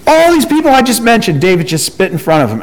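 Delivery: high, incredulous scolding; exasperated Joab. Retold or imitated. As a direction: rebuke the king in disbelief, speeding up. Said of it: "And Joab's like".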